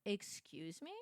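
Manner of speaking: soft, mock-affronted question; imitated affront. Wife mimicking husband in real time, quiet affronted question. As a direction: say it small and quiet, mimicking his disbelief.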